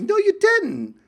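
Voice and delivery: hammed-up Essex voice; mock Essex accent. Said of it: "she's from Essex".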